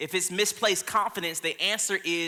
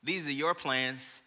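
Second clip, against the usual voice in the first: gentle voice of God; 3 semitones lower, 6 dB quieter than usual. Retold or imitated. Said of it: "God was just like".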